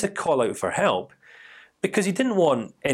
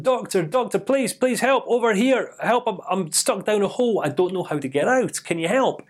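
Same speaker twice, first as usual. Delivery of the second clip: desperate call for help; 6 semitones higher than usual. Retold or imitated. Man calls up to passing doctor.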